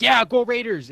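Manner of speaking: loud, high mock cheering; high-pitched rah-rah impersonation; imitated fan cheer. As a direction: cheer like the coworker. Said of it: "and he's like".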